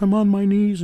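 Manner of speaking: high-pitched retelling of a desperate plea; imitated tearful begging. Distraught mother on her knees to investigator, imitated begging. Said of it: "she started sobbing and crying".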